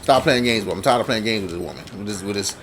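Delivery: under the breath, low and soft, retold determination; low, muttered resolve. Camp worker psyching up to charge the lion, low muttered resolve.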